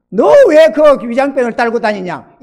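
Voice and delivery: God rebuking the pastor, a touch of stern; the Spirit scolding the pastor, mildly stern. Retold or imitated. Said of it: "하나님의 성령이 이렇게 말하더래요".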